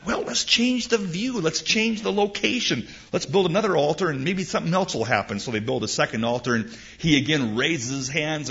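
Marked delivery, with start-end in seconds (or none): 0.1-5.4 scheming king. Acted. Balak scheming again.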